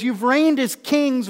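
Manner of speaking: drawn-out mock homage; Paul sarcastically hailing them as kings; sarcastic. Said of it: "Paul is using, uh, sarcasm here".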